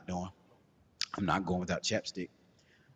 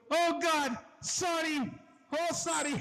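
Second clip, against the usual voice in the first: high squeaky apologetic voice; flustered manager; slower than usual. Retold or imitated. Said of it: "He goes".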